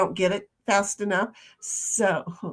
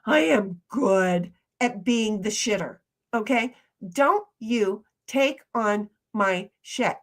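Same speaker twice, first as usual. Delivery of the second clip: telling a friend not to blame herself, emphatic; emphatic retelling; 4 dB louder than usual. Retold or imitated. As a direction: insist she not take the blame. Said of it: "It's like".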